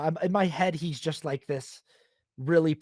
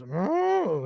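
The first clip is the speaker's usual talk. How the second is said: cow moo imitation; 3 semitones higher than usual. The cow mooing back, lightly imitated. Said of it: "the cow kinda goes".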